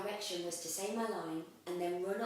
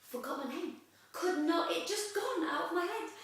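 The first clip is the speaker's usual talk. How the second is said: laughing disbelief; 10 semitones higher, 4 dB louder than usual. Real, not acted. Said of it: "retelling forgetting line".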